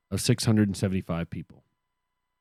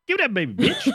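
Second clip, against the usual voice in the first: shrill crazed woman. Pretend. Acting out a woman snatching baby.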